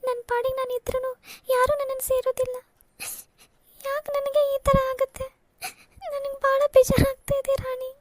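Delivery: tearful, pitch climbing as she breaks down; weeping out her hurt to her sister; elder sister sobs to Rani about being rejected everywhere; crying. Acted. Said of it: "ಅಕ್ಕ, please ಅಕ್ಕ, ಅಳ್ಬೇಡ".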